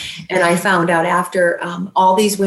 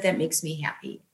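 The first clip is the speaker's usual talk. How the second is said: put-on gentle old man; 10 dB quieter than usual. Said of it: "in his very sweet voice".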